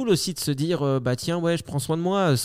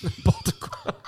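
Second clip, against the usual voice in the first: laughing; much slower than usual. Real, not acted. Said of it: "On dit n'importe quoi".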